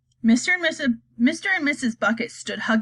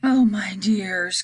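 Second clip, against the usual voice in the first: frightened cry; 2 semitones lower, much slower than usual. Acted. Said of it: "cried Grandma Georgina".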